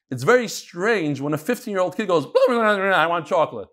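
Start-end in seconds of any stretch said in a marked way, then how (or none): 2.2-3.7 mock babbling whine of a teen acting like a baby; baby talk. Rabbi mocking a fifteen-year-old's childish babble. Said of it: "then you can talk like that".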